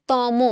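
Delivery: তম said "to-mo" with final o; two drawn syllables in তম, "to-mo". Shown as a demonstration. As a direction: round off তম with an o. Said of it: "আমরা সবাই বলি তম".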